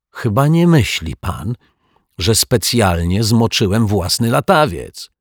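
put-on a kid close to tears, pleading his case; upset boy.

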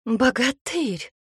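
cling to the hero, crying out; scared maiden calling to the hero, slowly; frightened cry. A narrator's reading. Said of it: "она была очень напугана".

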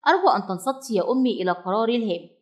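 quick, sure and self-assured; confident. Acted. Little bird tells his mother his decision, confidently. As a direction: announce it like a grown-up decision. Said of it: "وخرج صوته واثقا".

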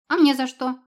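put-on high, loud little kid's squeak of protest; childish squeak. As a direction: yelp like a wronged child. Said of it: "пискнул детский голосок". (писклявый детский голосок)

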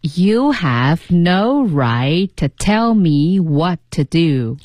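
very slow, drawn-out practice read; slow repeat reading. Shown as a demonstration. Co-host repeats after the teacher, very slowly. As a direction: follow the model word by word, stretched out. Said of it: "那我们来读两遍".

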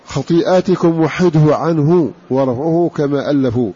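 measured recital of Arabic didactic verse, ending drawn out; verse recitation. Acted. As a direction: recite the couplet metrically, stretching the final rhyme.

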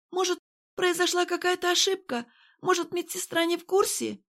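high, hesitant woman's question; doubtful Irene. A narrator's reading. Irene to Kirill, high and timid. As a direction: timidly suggest a mistake.

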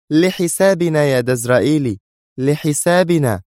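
high, emphatic correction; stern. A narrator's reading. Sonia leans toward Dazraeli to correct him, stern. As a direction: repeat it firmly, slowing on the last word. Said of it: "وهي تقول في صرامة".

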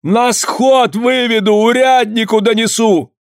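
cornered man threatening the women, high strained yell; straining shout. A narrator's reading. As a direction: push the voice to its limit. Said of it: "напрягая голос, закричал".

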